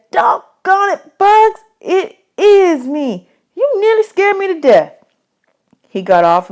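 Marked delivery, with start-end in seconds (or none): 0.1-4.9 breathless, slow, higher voice; gasping the words out after a fright; out of breath. A narrator's reading. Bud, winded after Bugs pins him, breathless and high. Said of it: "finally got breathing right".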